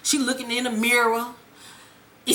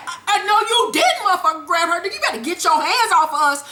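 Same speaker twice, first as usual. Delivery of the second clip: higher-pitched, quick-fire outrage; indignant; 5 semitones higher, faster than usual. Retold or imitated. Fan scolding Ghost for grabbing Tasha, indignant. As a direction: scold him in raised, hammed-up disbelief.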